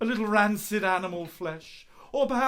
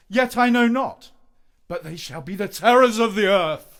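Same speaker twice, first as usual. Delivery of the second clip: mock Lear; 7 dB louder than usual. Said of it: "King Lear, my favourite play".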